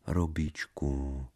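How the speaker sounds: soft, slow cooing; cajoling. Acted. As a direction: coax him sweetly. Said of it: "pravila mazlivě". (mazlivě)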